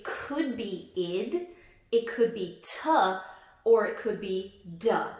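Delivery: id, t, duh said one by one; ending sounds demo. Shown as a demonstration. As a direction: model each ending sound distinctly. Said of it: "the way you say it".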